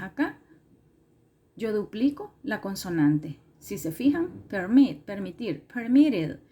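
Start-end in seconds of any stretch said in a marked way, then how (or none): 4.5-5.0 "permit" with a louder -MIT; stress on second syllable. Shown as a demonstration. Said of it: "la mayor fuerza de voz en la segunda sílaba".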